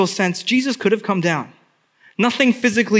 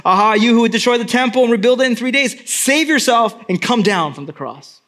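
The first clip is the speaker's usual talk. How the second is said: fast, louder jeer; mocking passerby; 4 semitones higher, 4 dB louder, faster than usual. Passerby jeering at Jesus, fast scornful taunt. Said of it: "The passerby said".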